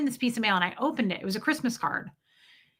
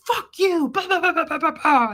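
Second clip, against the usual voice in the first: high, louder imitation of a rant, tumbling into babble; mock angry rant; 6 semitones higher, 4 dB louder than usual. Woman imitating husband's rant in their fights, mock angry. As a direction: mimic a yelling husband in a raised pitch.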